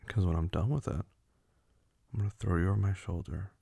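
firm command. Acted. Laying down rules to partner.

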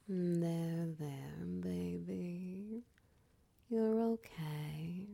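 slow reassuring whisper. Acted. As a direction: breathe it gently into their ear. Comforting partner, repeated reassurance.

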